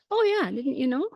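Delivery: high, surprised oh yeah; surprised owner. Retold or imitated. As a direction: jump up in pitch, amazed she didn't know. The horse's owner answers surprised.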